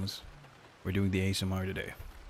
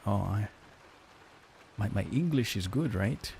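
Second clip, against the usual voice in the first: lightly imitated German-accented English; mock German accent. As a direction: mimic a German friend's accent, gently teasing. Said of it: "make fun of his accent".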